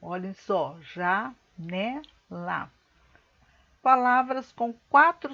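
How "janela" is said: "janela" split into ja, ne, la with pauses; syllable by syllable. Shown as a demonstration. Teacher splitting the word for pupils, "janela" syllable by syllable.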